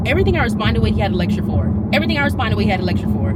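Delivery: loud fed-up repetition; loud irritated complaint; exasperated. Real, not acted. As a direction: hammer it home loudly. Venting, repeated line.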